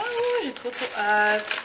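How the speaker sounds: can hardly wait, voice jumping up; giddy unboxing squeal; excited. Real, not acted. Excited unboxing of birthday gift.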